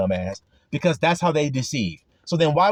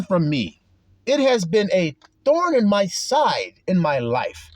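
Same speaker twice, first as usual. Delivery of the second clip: slow, raised pleading confession with a laugh; retold humble confession; 6 semitones higher, slower than usual. Brother confessing his sin, asking for prayer, slow and pleading. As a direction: drag it out like a man owning his sin. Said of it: "He said".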